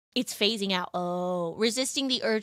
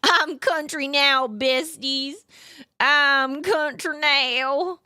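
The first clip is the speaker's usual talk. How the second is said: mock Southern; 3 semitones higher, much slower than usual. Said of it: "deep southern country".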